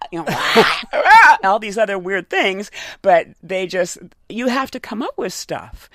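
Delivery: normal talking voice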